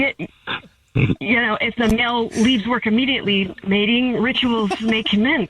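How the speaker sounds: lightly voiced wildlife narrator, measured pace; David Attenborough. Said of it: "why are you talking like that?".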